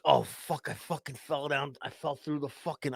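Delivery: soft, sinking realization; dawning dread. Retold or imitated. Hungover man recalling his fall to himself, hushed dismay. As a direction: let it drop to a hushed mumble.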